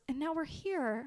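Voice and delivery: gentle. Retold or imitated. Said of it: "I just sort of choked up".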